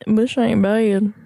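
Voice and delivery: put-on slow, lightly drawn-out Minnesota accent; a light Minnesota accent, copying his friend. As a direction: try a Minnesota accent, slowly. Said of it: "Am I doing the right accent? Minnesota?".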